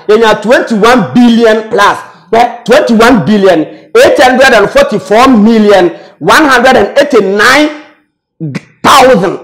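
twenty-one billion spelled out slowly, each number weighted; slow emphatic figures. Real, not acted. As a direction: read the total slowly for effect. Spelling out a huge sum.

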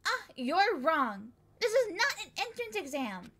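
a hint of a sweet little girl; cutesy voice. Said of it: "Why'd you make that cutesy voice".

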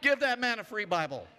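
laughing self-praise; laughing boast. Real, not acted. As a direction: crow over your own line, laughing. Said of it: "joking praise for himself".

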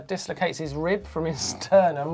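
laughing nervously through the words; uneasy giggle while telling it. Real, not acted. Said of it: "I don't know why I'm laughing".

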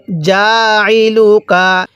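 drawn-out chanted recitation; slow Quran recitation. Shown as a demonstration. Teacher reciting slowly for students to repeat. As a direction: recite slowly, stretching each vowel. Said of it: "কিভাবে পড়ব?".

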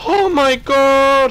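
slow, high, loud disbelief; stunned exclamation. Real, not acted. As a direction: drag it out in total shock. Shock at the round's outcome.

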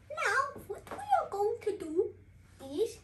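put-on light playful Indian accent. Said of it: "I'm just gonna take off my Indian accent".

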